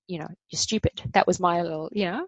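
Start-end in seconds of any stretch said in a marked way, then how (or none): 0.5-1.0 inner critic. Retold or imitated. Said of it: "little voice inside that would go".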